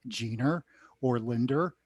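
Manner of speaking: Queens accent, r sound ending "Jeaner" and "Linder". Shown as a demonstration. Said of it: "It still comes out".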